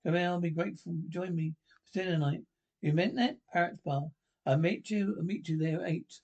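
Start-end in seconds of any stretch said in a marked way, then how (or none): 2.8-3.4 higher-pitched hopeful disbelief; surprised. Acted. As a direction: question the invitation in surprise. Scene: disbelieving reply to dinner invitation.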